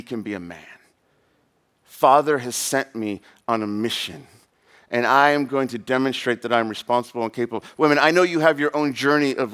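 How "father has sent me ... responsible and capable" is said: lightly voiced boy on a mission; measured, dutiful resolve; solemn young boy. Voices boy proving his manhood.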